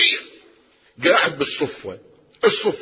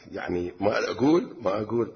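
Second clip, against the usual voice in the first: hesitant, softer, head lowered in shame; shy and bashful; 3 semitones lower, 5 dB quieter than usual. Acted. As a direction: mumble it shyly, reluctant to speak. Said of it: "استحى".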